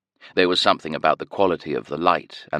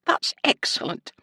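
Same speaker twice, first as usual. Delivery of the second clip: high breathy sing-song; chirpy nurse announcing; Scottish nurse voice; 12 semitones higher than usual. A narrator's reading. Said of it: "she announced".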